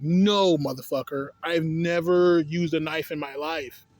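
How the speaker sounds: emphatic mock outburst on no, then controlled indignation; acted inner anger. Applicant silently answering interviewer's knife question, mock indignant. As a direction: voice the angry thought, punching the first word. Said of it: "It makes you angry. Like, inside".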